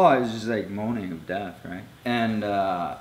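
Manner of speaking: normal talking voice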